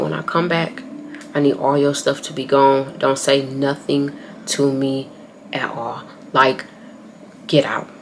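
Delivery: soft, controlled ultimatum. Retold or imitated. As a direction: lay down the final word quietly. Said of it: "I didn't raise my voice".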